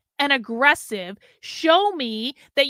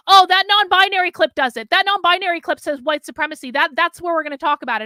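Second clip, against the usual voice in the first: mock dismissive interviewer; 4 semitones higher, 5 dB louder than usual. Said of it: "And he said".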